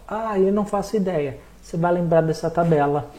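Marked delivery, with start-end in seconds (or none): 0.1-1.4 higher, puzzled student voice; clueless student. Retold or imitated. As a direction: play the lost student.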